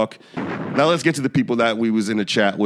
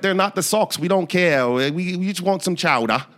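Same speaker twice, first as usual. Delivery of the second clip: higher, shrugging fan voice; mock Boston fan; 5 semitones higher than usual. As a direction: brush it off like an indifferent local. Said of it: "they was like".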